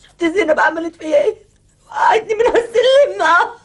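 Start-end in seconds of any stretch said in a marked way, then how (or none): 1.9-3.2 crying out. Acted. Wife accuses, crying out.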